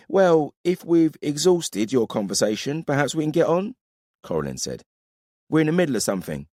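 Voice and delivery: brisk no-nonsense woman warrior voice; curt female soldier, unimpressed; stern woman warrior. Acted. Coralyn voiced.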